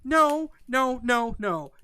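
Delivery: loud high no's stepping downward; emphatic scolding string of no's; exasperated refusal. Retold or imitated. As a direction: shut it down in exasperation. Exasperated retort to the heroine.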